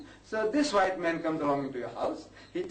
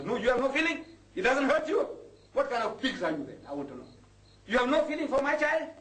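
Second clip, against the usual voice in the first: indignant rebuke; 8 semitones higher than usual. Real, not acted. Preacher rebukes indifferent community.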